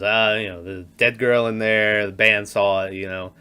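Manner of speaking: lightly voiced creepy old man, low; Patrick Stewart voice. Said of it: "in this Patrick Stewart voice".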